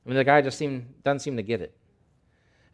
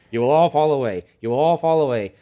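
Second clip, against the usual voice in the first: emphatic warning; 3 semitones higher, 9 dB louder than usual. Acted. Preacher repeating Jesus' words.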